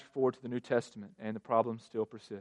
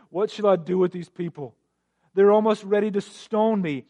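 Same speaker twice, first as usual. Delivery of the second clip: raised, higher plea read from scripture; crying out; 7 semitones higher, 10 dB louder than usual. A narrator's reading. Preacher reads Moses pleading to the Lord, crying out. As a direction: read it as Moses' loud, exasperated cry. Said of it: "So Moses cried to the Lord".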